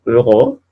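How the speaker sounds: Euro with a closed rounded eu, between O and E; French eu sound. Shown as a demonstration. Teacher modelling French eu for students, careful. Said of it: "pero un poquito más E".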